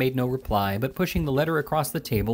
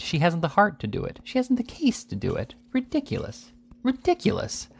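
indignant disbelief; 10 semitones higher than usual. A narrator's reading. Pickwick indignantly dismisses the suit.

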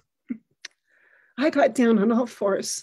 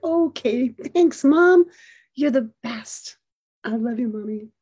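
joyful. Retold or imitated. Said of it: "I could hear joy grow in his voice".

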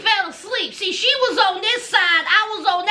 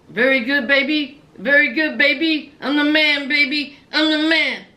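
put-on low, Borat-style accent, crooning baby; Borat impression; 6 semitones lower than usual. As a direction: ham it up like Borat, smug and pleased. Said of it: "He sounds just like Borat".

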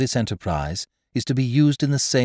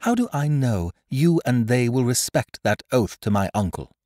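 higher, louder indignant outburst; crying out in anger; 9 semitones higher, 5 dB louder than usual. Acted. The girl accuses the captain of cheating her uncle, crying out. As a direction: let the anger break loose on YOU. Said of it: "she cried out".

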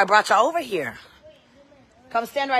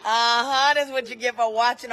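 laughing; 4 semitones higher than usual. Real, not acted. Mom laughs at son.

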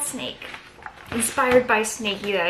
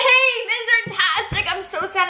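high, mopey little snake; a pitiful, high cartoon snake whining to a friend; childlike snake voice on the edge of tears; sad snake voice; 12 semitones higher than usual. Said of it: "And it said".

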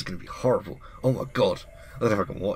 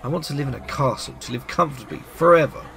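put-on higher, eager girl's voice; young girl Elise; 4 semitones higher than usual. Elise telling the witch her dream, eager and higher.

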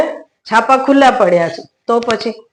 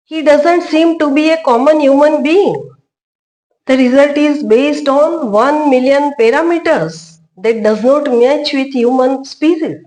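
slow, higher-pitched machine readout; AI assistant voice; 6 semitones higher, much slower than usual. Acted. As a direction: report the analysis slowly, like an AI tool. Plays AI tool reading its result. (AI સહાયકનો ધીમો અવાજ)

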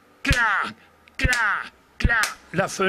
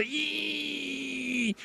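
squeaky creak; 9 semitones higher, 9 dB quieter than usual. Acted. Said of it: "elle grince".

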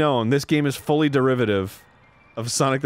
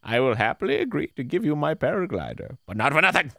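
put-on old man bargaining; 2 semitones higher than usual. Voices game old man's dialogue.

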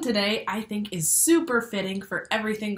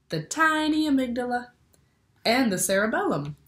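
bright, lively picture-book read-aloud; reading to children. A narrator's reading. Teacher reads a brain book to her class, lively storytelling. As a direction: read it like story time for little ones.

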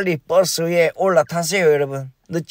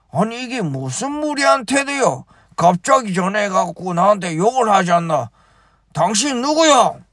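put-on chairman in higher, indignant Gyeongsang accent; 4 semitones higher than usual. Chairman answering the caller in indignant Gyeongsang accent. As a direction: protest indignantly in Gyeongsang dialect. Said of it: "경상도 사투리로 말 안 하나?".

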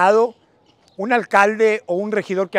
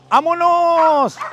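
long stretched shout of vámonos; drawn-out call; 5 semitones higher, much slower than usual. Real, not acted. Calling the group to leave.

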